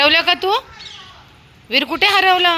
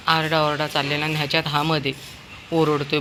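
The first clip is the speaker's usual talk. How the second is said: ordinary delivery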